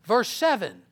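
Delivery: measured, solemn reading voice; preacher reading First Corinthians; scripture reading. Acted. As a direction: read the verses deliberately. Reads scripture aloud.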